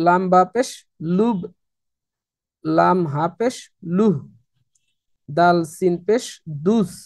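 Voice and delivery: letters named rising, syllable dropped short; repeat-after-me drill. Shown as a demonstration. Teacher leading students in repeating the sakin spellings. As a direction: lead the class through the spelling chant. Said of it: "আমার সাথে সাথে আপনারা একটু বলার চেষ্টা করবেন".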